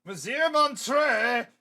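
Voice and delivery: slow, loud, drawn-out fancy name; grand announcement. Acted. Introducing the French museum manager, drawn-out flourish. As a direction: present the name with mock grandeur.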